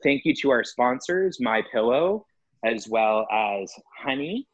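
podcast sign-off announcer read; mock-formal outro host voice; professional wrap-up. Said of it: "let me do a quick professional wrap up".

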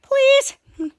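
high, loud desperate plea; pleading yell. Retold or imitated. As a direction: beg him loudly, voice jumping up. Kids beg Captain to pull lever.

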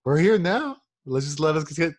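exasperated shout. Retold or imitated. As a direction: fire it back at him. Answering angry friend at 7 AM.

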